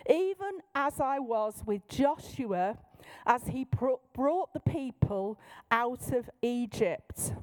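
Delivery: lightly put-on authoritative proclamation; King James prophet. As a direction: intone it solemnly, drawing out the ending. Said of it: "put on a voice which is different".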